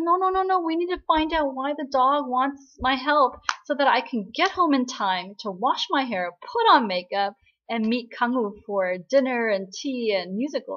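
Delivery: high, loud rapid protest; frantic insisting. Retold or imitated. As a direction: insist in a panic about the date. Gong Sil insists urgently.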